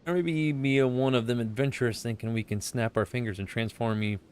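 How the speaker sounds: put-on pirate accent. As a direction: roll it out like an old sailor. Reads armorer dialogue.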